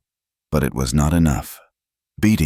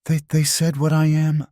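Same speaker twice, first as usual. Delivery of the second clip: broken voice; 12 semitones higher than usual. Acted. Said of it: "her voice broken".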